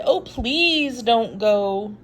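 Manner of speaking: high, loud, slow pleading monsters; wild things begging Max to stay; crying out. Acted. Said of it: "the wild things cried".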